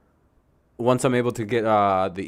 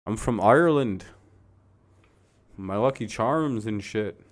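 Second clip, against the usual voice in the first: hammed-up Irish accent. Shown as a demonstration. Showing off a best Ireland accent, mock Irish. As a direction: do a jokey cartoon Irish accent. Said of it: "that's my best Ireland accent".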